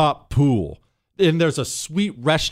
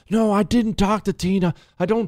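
put-on desperate, forced calm, much higher pitch; 5 semitones higher than usual. Retelling a man denying he talked to tina, in a mock desperate calm. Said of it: "like a desperate calm".

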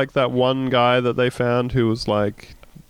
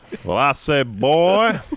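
mock elderly Southern gentleman voice; 2 semitones higher than usual. Joking that a quoted line sounds like Colonel Sanders, doing Colonel Sanders voice. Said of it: "don't say boy like that".

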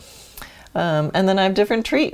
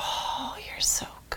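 soft, gentle praising tone, much quieter. Demonstrating the kind of praise one of the dogs loves, soft praise. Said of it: "So there's soft praise".

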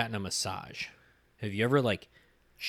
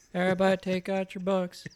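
very high-pitched cartoon classroom teacher voice; 10 semitones higher, 4 dB louder than usual. Showing which voice it was: South Park teacher voice. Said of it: "maybe the South Park, like, teacher guy?".

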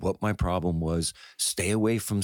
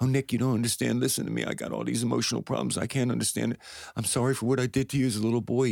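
mock meek, pitched-up, begging tone; 5 semitones higher than usual. Retelling how a man who hurt him as a boy pleaded: imitating someone pleading. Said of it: "started pleading with me for understanding".

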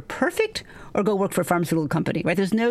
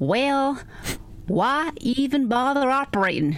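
put-on thick, mumbly Texas accent, like marbles in mouth. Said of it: "I can't quite do his marbles in the mouth Texas accent".

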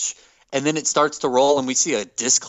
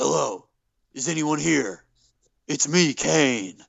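goofy put-on wrestler voice, much slower. Retelling the funeral parlor scene to listeners, do Triple H unconvincingly imitating Kane. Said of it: "genuinely funny because it's so clearly not Kane".

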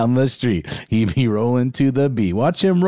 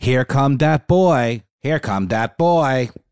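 machine text-to-speech, synthesized robotic computer voice. Quoting the audio track of a favorite meme, computer voice. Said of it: "I think it's a like a computer voice".

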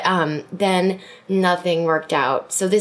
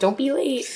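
put-on high, grouchy, grumpy grandma voice; 7 semitones higher than usual. Joking about being grumpy grandmas, scolding: mock grumpy grandma voice. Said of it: "grumpy grandmas".

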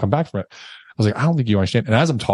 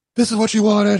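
mock screaming, higher and faster; 11 semitones higher than usual. Recounting a chaotic standoff, you repeat what you yelled at the time, retelling your own screaming. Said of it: "she's like on the phone screaming".

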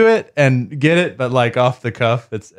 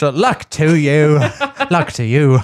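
put-on Irish accent; 2 semitones higher than usual. Deciding Mr. Gates sounds Irish and trying out a new voice for him: Irish accent as Mr. Gates. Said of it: "Gates is like Irish".

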